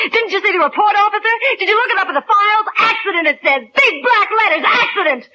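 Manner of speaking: high taunting sneer with laughs; mocking laughter. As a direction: jeer at him, laughing.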